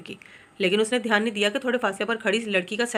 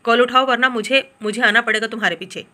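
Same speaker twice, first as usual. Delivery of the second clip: raised, insistent threat; angry warning; 6 dB louder than usual. Acted. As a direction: push her to pick up the call, louder. Angry message to sister.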